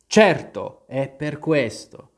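sighing, slow. Acted. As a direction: answer with a weary sigh. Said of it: "con un sospiro". (cappellaio sospira)

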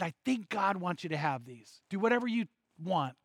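quietly firm, retold insistence; strong insistence. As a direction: hold firm without raising the voice. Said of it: "and now it was strong".

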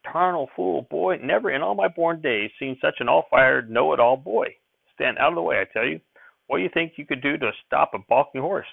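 high-pitched scolding grandfather; crotchety old farmer's indignant tirade; angry shouting. A narrator's reading. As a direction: rant in outrage, pitched well up. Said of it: "and shouted".

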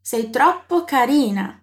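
slow, clearly spaced words; slow model phrase. Shown as a demonstration. Teacher shows a compliment in Italian, slowly. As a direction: lay each word out for the learner. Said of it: "E se for muito querida?".

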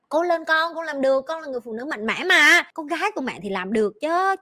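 a mom lightly encouraging her daughter; encouraging mother. Retold or imitated. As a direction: cheer her on from below. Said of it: "Tao kêu".

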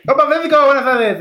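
high, loud lisping friend voice; ceceo Spanish. Retold or imitated. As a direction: imitate the lisping compadre. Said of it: "mi compadre dice".

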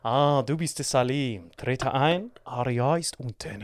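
leiser, langsamer, würdevoller Vater; königlich und gemessen begrüßen, langsam. Retold or imitated. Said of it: "er steht einfach nur da". (Vater begrüßt Salim an der Tür königlich, leise und langsam)

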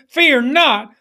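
Fear not called out strong; call to repeat. Shown as a demonstration. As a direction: lead the people in Fear not. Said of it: "say that with me".

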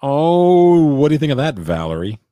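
teasing high-pitched voice; high mocking taunt. Teasing friend with put-on voice.

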